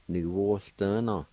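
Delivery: "nu, wo, sta, na" run together as one word; whole-word demo of "nu, wo, sta, na"; pronunciation demo. Shown as a demonstration. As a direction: blend "nu, wo, sta, na" smoothly. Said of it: "let's pronounce these words one more time".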